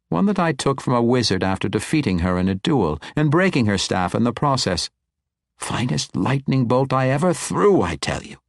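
put-on lively old wizard relishing a memory; animated old wizard. Old wizard tells the woman of his duel, proudly animated. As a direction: reminisce with proud, swinging pitch.

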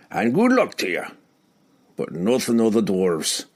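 stubborn dwarf, lightly voiced; a proud dwarf refusing help; gruff dwarf voice.

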